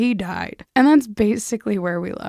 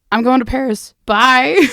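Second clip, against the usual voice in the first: louder, higher gleeful announcement; breezy loud goodbye on the phone; 5 semitones higher, 9 dB louder than usual. Retold or imitated. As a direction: sing out the exit, delighted. Old woman's cheerful message.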